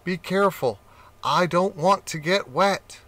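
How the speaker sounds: mildly anxious plea; worried cat. Acted.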